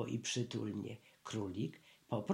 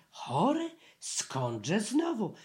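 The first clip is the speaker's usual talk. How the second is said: high, offended, dragging out the second question; affronted little bear; huffy and high; indignant; 5 semitones higher, slower than usual. A narrator's reading. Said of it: "oburzył się Puchatek".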